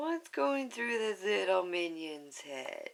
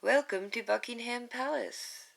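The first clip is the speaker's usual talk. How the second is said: attempted English accent; 6 semitones higher than usual. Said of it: "I don't have a very good English accent".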